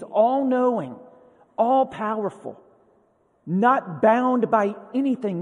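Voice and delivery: God emphatically reminding Moses who he is; heavy emphasis. Acted. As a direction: build a ringing list, hitting each attribute. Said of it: "he does come with a heavy emphasis".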